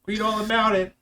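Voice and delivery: high, loud street-corner newsie cry; slow, belted old-time paperboy shout; newsboy calling out. Acted. Paper boy hawking papers.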